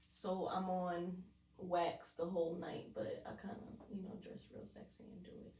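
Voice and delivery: low whispery phone voice. Real, not acted. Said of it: "this my phone voice".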